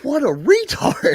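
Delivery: high, slow laughing jeer; high mocking laugh-through insult; laughing mockery. Real, not acted. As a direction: drag it out mid-laugh.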